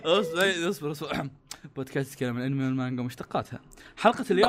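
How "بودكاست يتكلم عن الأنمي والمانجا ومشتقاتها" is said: fast host intro. Acted. Podcast intro read.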